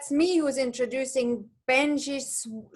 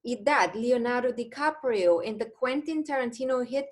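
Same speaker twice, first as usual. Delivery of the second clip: announcer introduction. Acted. Formal guest introduction.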